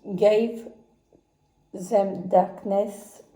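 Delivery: slow, careful French-accented English title. Real, not acted. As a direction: sound out the English name in a French accent, slowly. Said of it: "Mon anglais, moi, ça fait deux".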